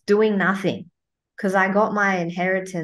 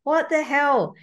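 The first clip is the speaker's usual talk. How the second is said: shocked; 8 semitones higher than usual. Retold or imitated. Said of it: "I was like".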